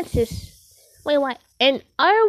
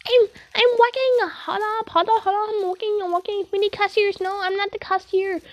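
lightly put-on, higher working voice; 4 semitones higher than usual. Player on the job turning away cashiers, working voice. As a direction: pitch it up a little, playing at work. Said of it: "It's my working voice".

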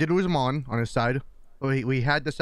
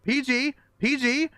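teasing scold; 9 semitones higher, slower than usual. Real, not acted. Scolding bad word.

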